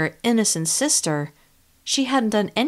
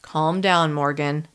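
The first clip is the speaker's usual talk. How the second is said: unruffled; 2 semitones lower, slower than usual. Acted. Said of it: "as unruffled as ever".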